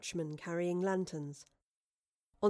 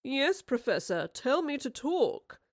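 slow, high-pitched mocking baby voice; drawn-out babyish teasing; 6 semitones higher, slower than usual. A narrator's reading. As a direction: mimic her plea like a baby. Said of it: "said in a babyish tone".

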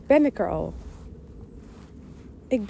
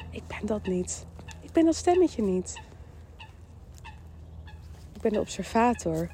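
calm reminder; 8 dB quieter than usual. Shown as a demonstration. Models calmly observing the inner voice.

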